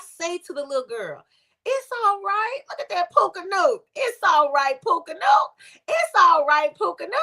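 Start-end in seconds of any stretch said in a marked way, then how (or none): 1.6-7.2 put-on lightly cheery coaxing of a child; cheering up. To a crying little girl in a buggy, cheering up. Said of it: "I'm trying to cheer her up".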